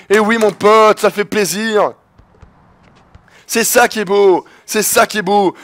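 high, elated victory call; triumphant celebration. Real, not acted. Gamer telling his buddy the win feels great, triumphant celebration.

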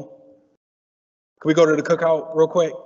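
"cookout" said slow and easy, a put-on homey voice; casual cookout slang. Shown as a demonstration. Speaker testing the room with insider slang, relaxed and drawn out. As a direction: lean into family slang, slowed down. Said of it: "I'm gonna test how family we are on this".

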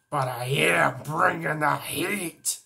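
slow, confident punchline; cocky hero line. Acted. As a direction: lean into each word. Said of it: "Heat Blast!".

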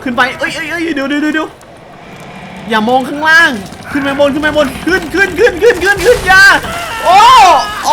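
high, loud frantic screaming; terrified, urging the character up; real panic yelling at the screen; panicked shrieking. Real, not acted. Panicked climbing in game.

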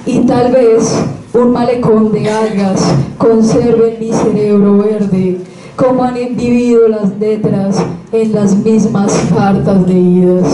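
measured poem reading with pauses between lines; poetry recitation. Acted. Sharing a Spanish poem with listeners, measured recitation. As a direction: read it out line by line as verse.

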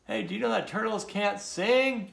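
high-pitched storybook call; mild high holler. A narrator's reading. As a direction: call the news down to friends below. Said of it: "he called down to the other turtles".

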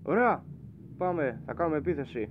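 high, loud call to attack; rally everyone to charge; excited battle cry. Real, not acted. Gamer charging the enemy ship, excited and loud.

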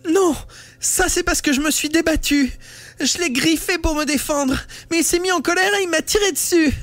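put-on very high, childlike wounded innocence; girl feigning childish innocence to a classmate; innocent little girl. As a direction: play the wrongly accused little girl, pleading. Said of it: "sur le modèle d'une petite fille ingénue accusée à tort".

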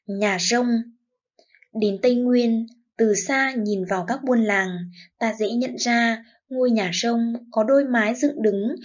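measured teacher's read-aloud, phrase by phrase; model reading aloud. Shown as a demonstration. Teacher reads the lesson for children to follow, model read-aloud. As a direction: read it out as a careful model for pupils. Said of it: "lắng nghe cô đọc mẫu".

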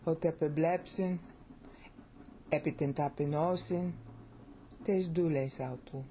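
Hotepeblepsin, epitentapenosin, tesdulesautu, stressed on the stems; cadenced Greek. Shown as a demonstration. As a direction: give "Hotepeblepsin, epitentapenosin, tesdulesautu" a beat, phrase by phrase. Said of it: "See how much better that sounds".

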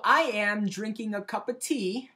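hammed-up, slow fake British accent; bad British accent. Shown as a demonstration. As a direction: attempt a British accent and not quite manage it. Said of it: "I was trying to do a British accent".

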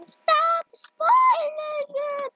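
high, slow whine; whiny viewer voice. Pretend. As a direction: drag it out like an annoyed fan. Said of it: "You guys are probably saying".

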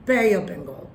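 "Bay" with a full ay glide; correct pronunciation. Shown as a demonstration. Teacher repeating the corrected name, correct pronunciation. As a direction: say "Bay of Bengal" with gliding "Bay". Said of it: "এটার উচ্চারণ আসলে".

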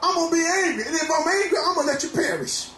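fervent preaching over music, rising to shouts. Real, not acted. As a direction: preach hard at the congregation, calling out. Preacher exhorting congregation.

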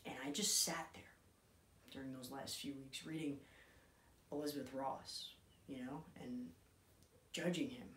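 intense, halting monologue with long pauses; dramatic monologue. Acted. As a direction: play it raw and hesitant, grieving son. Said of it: "bringing you another monologue".

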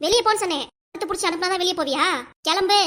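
furious shout. Acted. Wife shouts husband out.

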